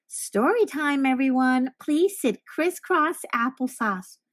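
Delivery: slow, sing-song librarian call; gentle librarian. Acted. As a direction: call the kids in sweetly. Librarian calling children.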